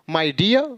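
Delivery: "dear" as dee-yaa, r dropped; silent final r. Shown as a demonstration. Teacher recaps the rule for learners, "dear" without r. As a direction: let "dear" rise on an open vowel. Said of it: "तो ये क्या पढ़ेंगे".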